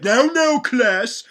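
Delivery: mock teacher addressing raptor students; stern teacher. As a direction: lecture the class like a fussy teacher. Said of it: "and he's like".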